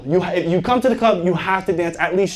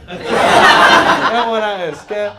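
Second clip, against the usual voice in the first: laughing; 4 dB louder, much slower than usual. Pretend. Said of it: "y qué hora es".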